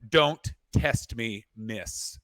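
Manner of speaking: slow, firm, menacing; stern warning. Retold or imitated. Flight attendant warning the rude passenger, slow and stern. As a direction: lay down the law, word by word. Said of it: "got right in her face and went".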